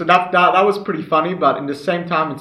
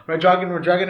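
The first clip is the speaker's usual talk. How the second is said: mock Chinese-sounding chant; lightly imitating fake Chinese; fake foreign language; 3 semitones higher than usual. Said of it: "pretending to speak Chinese".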